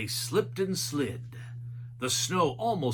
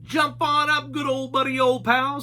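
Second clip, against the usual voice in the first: high, loud goofy Shaggy voice; a lanky cartoon slacker calling his dog; 10 semitones higher, 6 dB louder than usual. A narrator's reading. Shaggy urging Scooby onto the ski lift, high and goofy. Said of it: "said Shaggy".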